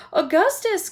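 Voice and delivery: high, loud call; mother crying out high. Acted. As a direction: cry his name in alarm. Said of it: "cried Missus Gloop".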